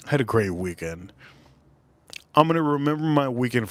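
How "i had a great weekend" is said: dreamy, softer. Real, not acted. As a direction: lower and softer, savouring the memory. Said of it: "Just in case you guys ask".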